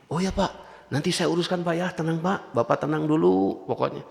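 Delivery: soft, soothing assurance to an upset pilgrim; calm him down softly, just play along; soft, humble hotel-staff reassurance; placating reassurance. Shown as a demonstration. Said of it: "Jadi pura-pura saja sudah kita".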